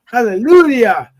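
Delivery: loud, drawn-out revival preacher; Southern Baptist preaching voice. Shown as a demonstration. Man shows off his preaching voice for friends, preacher-style shout. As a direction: proclaim it slowly like a Baptist preacher. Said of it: "get on my preaching voice".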